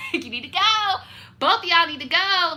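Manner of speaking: loud, high mock demand; mock shouting at the office. To the leasing office, loudly demanding they leave.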